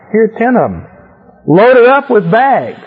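greedy excitement. Retold or imitated. Teacher voices greedy Laban gawking.

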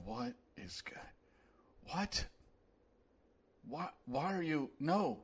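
hushed, exasperated plea to a silly nation; Thomas Jefferson impression. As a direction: gently beg them to stop, dismayed and stammering. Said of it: "this is my impression of Thomas Jefferson".

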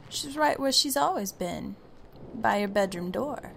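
smug ceiling voice. Acted. Ceiling voice corrects her.

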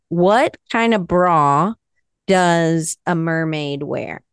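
dad joke setup. Pretend. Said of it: "It's total dad joke".

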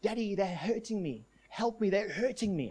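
lightly voiced little girl, softly pleading; a hint of a small girl begging for help; little girl's voice. Possessed son pleads to his dad, lightly imitated little girl's voice. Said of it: "in a little girl's voice".

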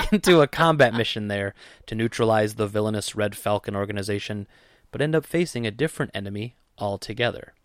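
movie-trailer narrator reading a synopsis. Pretend. Podcast host reading a film synopsis to his co-host, movie voice. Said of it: "your movie voice".

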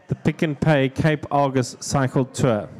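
slow, deliberate full sponsor title; pedantic full name. Pretend. Comic telling podcast hosts the race's official name, pedantic. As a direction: spell out every word like a stickler. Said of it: "fairly anal".

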